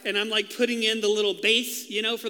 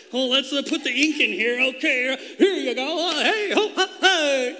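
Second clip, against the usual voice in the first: breezy nurse; 4 semitones higher, 6 dB louder than usual. Retold or imitated. Imitating careless hospital nurse.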